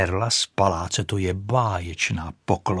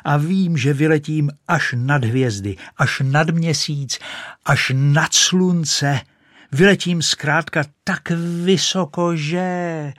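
higher, louder building brag; rising boast; 7 semitones higher, 4 dB louder than usual. Acted. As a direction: soar higher with each phrase. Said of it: "křičela". (stupňující se vyšší, hlasitější chvástání)

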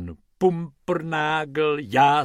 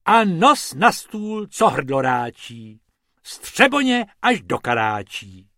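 character voice; 7 dB louder than usual. Acted. Rhymed toast by a character.

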